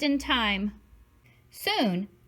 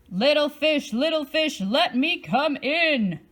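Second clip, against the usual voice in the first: a lightly voiced big bad shark, a bit louder; shark's call; 4 semitones higher, 3 dB louder than usual. Shark calling to the little fish at the door, lightly menacing. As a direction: coax the fish to open up, menacing. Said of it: "roared the shark".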